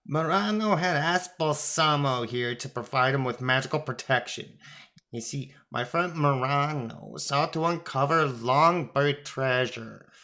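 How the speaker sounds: lightly voiced little god laying out his case; Thoth, indignant explainer.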